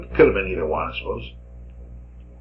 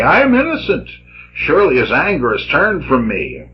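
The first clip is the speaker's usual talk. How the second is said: emphatic reading of a prophet's rebuke; dramatic scripture reading. Acted. Lecturer reading Jeremiah's rebuke to his listeners, declamatory. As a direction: proclaim it, with the quoted words lifted in pitch.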